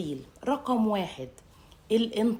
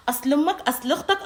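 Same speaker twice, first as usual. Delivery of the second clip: mock sneer; 5 semitones higher, 3 dB louder than usual. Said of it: "نيجي بقى".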